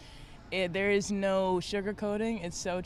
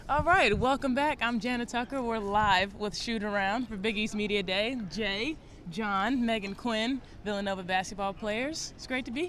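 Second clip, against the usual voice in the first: TV host intro. Shown as a demonstration. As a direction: open the show like a sportscaster. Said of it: "Uh, just say".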